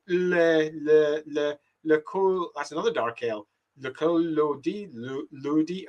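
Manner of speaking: halting, repeated stabs at the foreign syllables of "Le Col Lodi"; struggling to pronounce. Real, not acted. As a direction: feel out "Le Col Lodi" piece by piece. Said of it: "I shouldn't even try".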